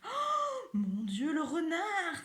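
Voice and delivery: high, loud cry of alarm; frightened cry. Acted. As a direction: shriek at the sight of the fox. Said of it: "crie Josette".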